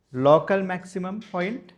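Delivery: slow, spaced out for note-taking; slow dictation. Shown as a demonstration. Teacher dictating a term slowly for notes. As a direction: read slowly so students can copy it. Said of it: "write down".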